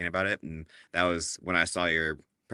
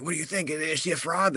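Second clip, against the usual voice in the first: higher-pitched retold question; imitated nosy questioning; 9 semitones higher than usual. Booth colleagues asking about the presenter, imitated eager questioning. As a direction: mimic curious onlookers, pitch jumping up.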